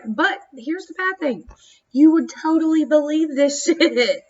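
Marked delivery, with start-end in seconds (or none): 1.9-4.2 slow, laughing through it. Real, not acted. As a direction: chuckle through the last words.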